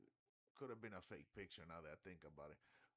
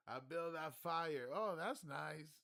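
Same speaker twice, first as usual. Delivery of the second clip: high, louder, slow retold shout; mock yell; 7 semitones higher, 8 dB louder, slower than usual. Retelling the joke to the viewer, slow loud yell. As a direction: replay the punchline loudly. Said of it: "retelling the joke".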